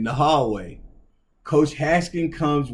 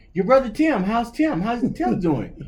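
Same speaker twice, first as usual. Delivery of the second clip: coach's voice; 10 semitones higher than usual. Retold or imitated. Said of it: "He said".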